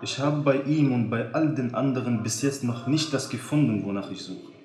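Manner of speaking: a touch of sadness, understated; lightly sad, tired confession. Acted. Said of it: "mit trauriger Stimme". (leicht traurige Stimme)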